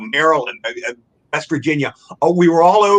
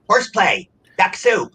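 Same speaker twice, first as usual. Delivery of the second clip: reciting practice words a bit higher, one by one; speech drill recital; 4 semitones higher, slower than usual. Shown as a demonstration. Rehab patient showing his vocal coach drill, raised recital. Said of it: "I had to keep saying them over and over".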